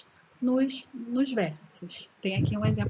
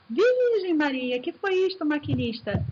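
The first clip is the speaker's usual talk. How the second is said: whistle-like exclamation; 3 semitones higher than usual. Shown as a demonstration. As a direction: stretch it high like the whistle. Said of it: "pode ser o apito do trem". (exclamação alta e arrastada como apito do trem)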